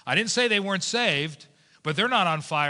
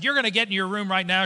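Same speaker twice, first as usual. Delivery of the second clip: quick, raised-pitch motherly command; stern mom ordering; 3 semitones higher, 4 dB louder, faster than usual. Retold or imitated. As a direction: imitate a mother laying down the law, fast. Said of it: "my mom said".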